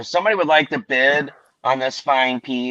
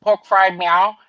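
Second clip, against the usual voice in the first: higher-pitched mock Chinese restaurant greeting; mock Chinese accent; 5 semitones higher than usual. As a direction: answer the phone in a put-on Chinese accent. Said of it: "Heng Wo Chinese restaurant".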